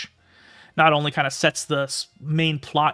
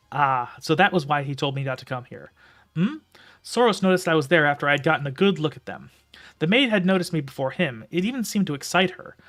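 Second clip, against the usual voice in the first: steady storytelling read; story narration; 2 semitones higher than usual. A narrator's reading. Reads the novel aloud.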